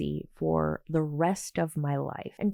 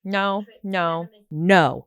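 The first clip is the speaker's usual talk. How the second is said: angry refusal; 5 dB louder, much slower than usual. Real, not acted. Angry refusal after the clip.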